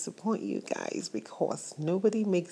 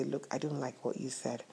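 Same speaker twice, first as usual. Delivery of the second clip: polite calm reply; 6 dB quieter than usual. Shown as a demonstration. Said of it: "talk politely and say".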